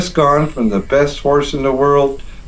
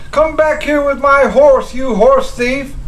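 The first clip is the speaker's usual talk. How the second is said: outraged yell; 13 semitones higher than usual. Acted. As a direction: shout after him in indignation. Officer yelling after stolen horse.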